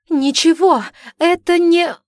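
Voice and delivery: high, loud panicked denial; frightened. A narrator's reading. Daughter cowers before her father, high and panicked. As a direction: stammer out in fear. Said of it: "Съёжившись от страха".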